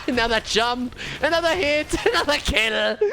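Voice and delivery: high, gleeful kill call; excited play-by-play. Real, not acted. Caster watches the dwarf chain kills, high excited call. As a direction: build excitement with each item, pitched high.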